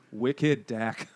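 slow, put-on New England accent. Reading what's on the can, New England accent. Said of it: "That's my shitty New England accent".

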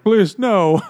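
high, loud gnome begging; mock pleading. Voices gnome begging in joke.

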